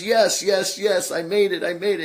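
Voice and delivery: excited spirit cheering I made it; enthusiastic yes. Retold or imitated. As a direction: cheer it like a touchdown at a game. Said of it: "very enthusiastic, like he's at a football game".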